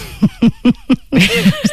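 high, bubbling laugh; amused high giggles; real laughter. Real, not acted. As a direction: burst out laughing at your own story. Amused at her retold audition boast.

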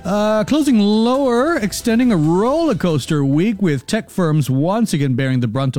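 even market-report delivery; business news read. Acted. Radio presenter opening the business segment, a market-report read. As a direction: read the closing numbers like a finance anchor.

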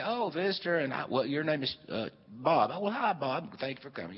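a hint of a chirpy welcome; friendly greeter. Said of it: "so people could say".

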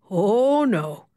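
gleeful. A narrator's reading. Emma plans a slow painful wax, gleeful. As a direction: savour the coming revenge. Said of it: "Emma thought gleefully".

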